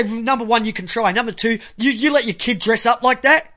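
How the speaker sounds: acted-out angry dressing-down of a parent; imagined confrontation. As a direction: dare him to fight, getting hotter each line. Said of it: "you say".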